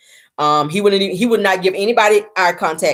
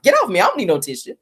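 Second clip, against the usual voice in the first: joking protest; 2 semitones higher, faster than usual. Retold or imitated. Castmate snapped out of an emotional moment, joking protest. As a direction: playfully imitate shooing someone away. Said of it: "He says jokingly".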